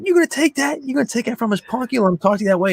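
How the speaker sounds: high-pitched needling questions; imitated goading. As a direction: egg him on with mock disbelief. Acting out De Niro egging on Tommy.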